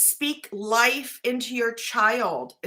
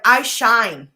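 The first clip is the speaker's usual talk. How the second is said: upbeat affirmations; 4 dB louder than usual. Shown as a demonstration. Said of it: "Be like".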